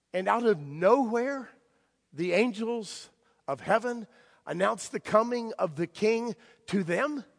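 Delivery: measured, slowed preaching with long pauses; sermon preaching. Acted. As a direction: preach it with pauses to let it land.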